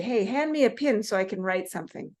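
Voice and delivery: PEN said as "pin", short 'i' vowel; Ohio friend's merger. Retold or imitated. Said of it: "she says it exactly this way".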